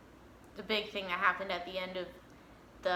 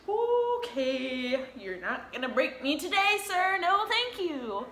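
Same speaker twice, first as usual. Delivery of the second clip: mock composed refusal; 6 semitones higher, slower than usual. Retelling holding back tears.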